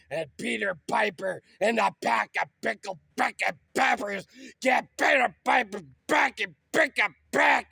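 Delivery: manic rant. Acted. Manic tongue-twister rant.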